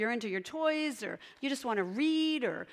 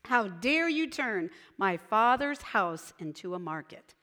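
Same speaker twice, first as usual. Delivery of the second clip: angry rebuke; 4 dB louder than usual. Retold or imitated. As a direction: drive the sellers out with a scolding. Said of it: "He got upset".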